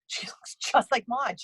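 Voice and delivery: She looks just like Maude whispered through a laugh. Real, not acted. Psychic repeating her Maude line to the host, laughing. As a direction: breathe it out laughing at your own joke.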